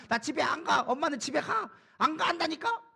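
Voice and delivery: lightly imitated sulky child, pitch climbing; child's tantrum. Preacher imitates a child refused a toy, mock tantrum. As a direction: dig your heels in like a whining child. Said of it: "마치 어린아이가 엄마가 장난감 사주지 않으니까".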